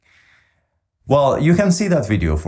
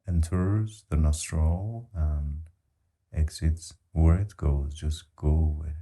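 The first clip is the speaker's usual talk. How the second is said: guided meditation; 3 semitones lower, 5 dB quieter than usual. Real, not acted. Guiding listeners to follow their breath, calm meditation voice. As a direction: gently guide them along with the breath, softly fading.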